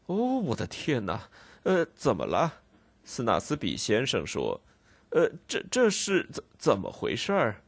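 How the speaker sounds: stammering, startled shopkeeper; flustered surprise. Acted. Snagsby startled at the constable and boy, stammering. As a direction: trip over the words in alarm.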